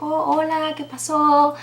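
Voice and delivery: high, sing-song hello; put-on high customer-service greeting; imitated cheery greeting. Friend greets the angry customer.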